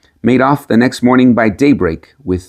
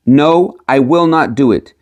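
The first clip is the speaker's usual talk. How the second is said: loud refusal; 5 semitones higher than usual. Acted. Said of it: "he cried with all his might".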